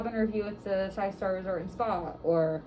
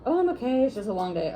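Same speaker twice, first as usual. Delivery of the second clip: 1 imitated checkout person; 4 semitones higher, 5 dB louder, faster than usual. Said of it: "to the checkout person".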